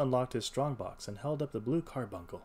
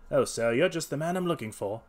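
higher, louder cry on the edge of tears; almost in tears; 4 semitones higher, 6 dB louder than usual. A narrator's reading. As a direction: plead like a man about to cry. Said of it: "cried the little fellow, almost in tears".

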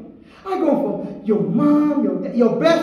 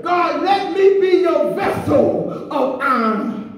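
fervent prayer; 3 semitones higher, slower than usual. Real, not acted. Preacher praying aloud to be filled, fervent. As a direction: cry out to the Lord, stretching each plea.

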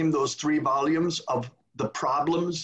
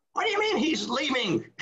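high, indignant disbelief; incredulous outrage; 11 semitones higher than usual. Retold or imitated. The cardinal hearing that Gagnon is leaving, incredulous and indignant. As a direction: demand it in shocked fury.

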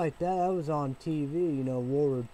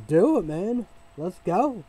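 hyped; 5 semitones higher, 7 dB louder than usual. Real, not acted. Hyped up for the fight.

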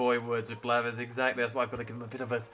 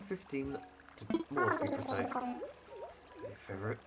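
a lightly voiced stuffy professor owl; hint of a posh museum curator; sophisticated tone; 2 semitones higher than usual. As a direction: read it like a pompous scholar, barely shifted. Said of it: "saying it with a sophisticated accent".

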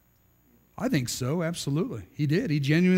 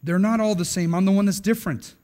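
mildly raised, insistent denial; emphatic protest; 2 semitones higher than usual. Acted. Peter protesting to Jesus, emphatic. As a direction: protest it firmly, a little heated. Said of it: "Peter protests emphatically".

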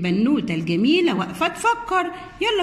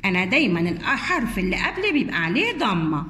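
lightly voiced friendly letter, lower at the start; a hint of a letter giving gentle advice; the letter Waw; 4 semitones lower than usual. The letter Waw advising the little letters, a lightly voiced role. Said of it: "حرف الواو قال لهم".

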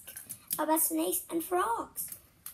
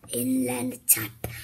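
dramatic whisper; 2 semitones lower than usual. Real, not acted. Dramatic reveal of deadliest snake.

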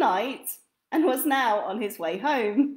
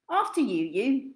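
polite twin. Acted. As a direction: hold the door and repeat. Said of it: "she said, opening the door".

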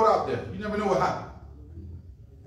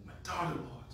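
much softer, faltering plea; pleading mother; 5 semitones lower, 12 dB quieter than usual. Acted. Mother begging Jesus for her daughter, soft faltering plea. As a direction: beg quietly, stumbling.

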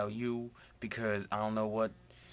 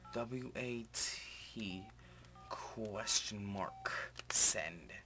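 dictating while driving; much slower than usual. Real, not acted. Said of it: "I got a text from Venom".

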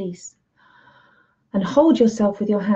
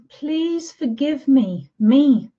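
higher, very slow forgiveness; tender plea; 5 semitones higher, much slower than usual. Shown as a demonstration. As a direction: ask yourself gently for forgiveness. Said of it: "And then you say".

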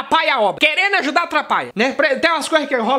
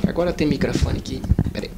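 pretend microphone; 10 semitones lower than usual. Mock-fumbling with a pretend microphone.

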